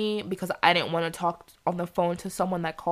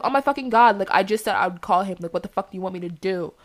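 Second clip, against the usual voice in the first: mildly exasperated retold outburst; irritated venting, not shouted; pissed off. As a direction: retell it with a touch of real annoyance. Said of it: "I'm pissed off, so I'm gonna say it".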